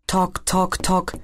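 light spoken "Tok, tok, tok" like knuckles on a head; hollow knocking. Acted. Maxi tapping his forehead, a mock hollow knock. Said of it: "tönt es".

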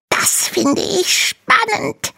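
very high, slow dragon voice; a tiny dragon fascinated; excited little dragon. Acted. Little dragon tells Hanno school sounds thrilling. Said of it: "faucht der kleine Drache".

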